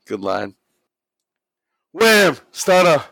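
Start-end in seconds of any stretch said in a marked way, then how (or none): 1.9-3.0 high, loud exclamations; sudden big shout; shouted impact. Acted. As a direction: punch out each move like a hit landing. Calling out the wrestling move.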